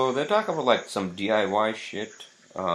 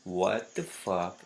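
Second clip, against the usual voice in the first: mock disbelief; slower than usual. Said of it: "You guys would be like".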